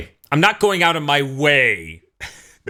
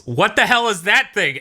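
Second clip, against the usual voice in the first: high, raised-voice mock yell; Goku yelling; 10 semitones higher, 4 dB louder than usual. Retelling the hero's reaction to the sun, mock yell. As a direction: imitate a baffled cartoon hero crying out. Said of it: "and then Goku yells".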